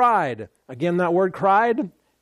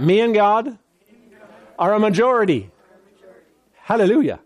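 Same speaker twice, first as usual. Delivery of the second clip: bold declaration to the congregation; proclaiming; 3 semitones higher than usual. Shown as a demonstration. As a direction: say it out like a confession of faith. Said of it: "Say that".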